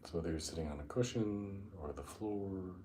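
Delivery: unhurried meditation guide, long pauses between phrases; guided meditation. Acted. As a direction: ease them down into the breath, drawing out key words.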